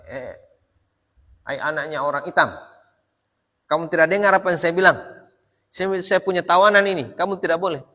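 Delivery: half-raise the voice in a retold rebuke. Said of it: "sudah tinggi di suara".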